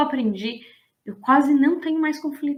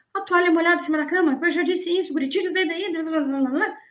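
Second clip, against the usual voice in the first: higher, rattling parental nagging; mock nagging mother over a wet towel; 5 semitones higher than usual. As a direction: rattle off the complaints like a tired mum. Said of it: "mãe e pai que fica".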